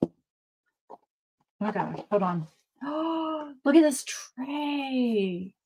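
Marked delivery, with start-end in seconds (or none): 2.8-5.5 gasp, then slow hushed whisper. Real, not acted. Finding the galaxy tray, awed gasping whisper. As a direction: breathe it out in wonder.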